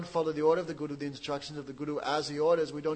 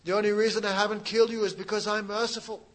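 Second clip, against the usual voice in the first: loud, higher furious declaration; angry warrior; 5 semitones higher, 5 dB louder than usual. Acted. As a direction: shout your mercy through clenched anger. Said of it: "Parasuram became very angry".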